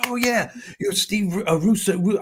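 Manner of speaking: high-pitched imitation of an excited fan; excited recognition. Seatmate recognizing comedian from Showtime, excited recognition. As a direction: act out suddenly placing a famous face.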